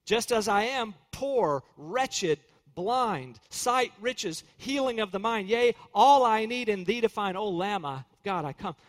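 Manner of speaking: slow, reverent hymn recitation. Acted. Preacher reciting the hymn to his congregation, slow and reverent. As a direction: recite the hymn line by line, devoutly.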